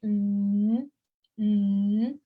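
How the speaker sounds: "mm" hummed rising; second tone. Shown as a demonstration. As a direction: lift "mm" like a plane taking off. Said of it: "The plane is taking off".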